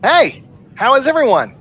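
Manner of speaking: high, smooth, breezy greeting; suave guy voice. Acted. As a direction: play it cool and charming. S0 voices Ensign Jeff.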